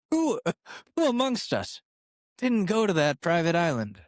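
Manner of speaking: high, sing-song mock question; mock innocent. Host teasing his listeners, asking in a high mock-innocent voice. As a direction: pretend everyone went there.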